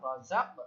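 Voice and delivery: রাযাক ending in a short echoing push on the final ক; রাযাক with the closing q sound released sharply; qalqalah bounce. Shown as a demonstration. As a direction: bounce off the last consonant of রাযাক. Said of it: "একটা ধাক্কা আমরা দিলাম".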